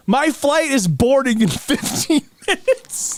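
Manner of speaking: high, exasperated whine of protest; desperate plea. Retold or imitated. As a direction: imitate a panicking traveler begging to leave. Retold urgent plea to guard.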